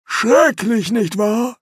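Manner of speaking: normal tone aside. Acted. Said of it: "fügte er in einem normalen Ton hinzu".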